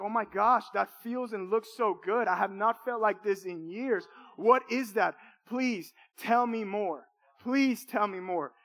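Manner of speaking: retold amazement, slow and pleading near the end; longing wonder. Awed pleading. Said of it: "And I'm like".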